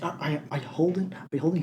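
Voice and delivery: quiet, sly offer; hushed dealer voice. Retold or imitated. Portman voiced whispering offer.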